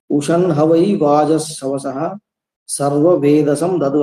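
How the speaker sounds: slow, even recitation of the Sanskrit verse; plain mantra reading. Shown as a demonstration. Teacher reading the Upanishad verse aloud to students, slow plain recitation. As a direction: read the mantra slowly without any tune. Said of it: "তো আমরা এমনি just পড়বো".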